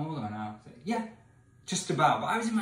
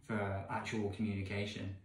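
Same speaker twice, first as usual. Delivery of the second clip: ordinary delivery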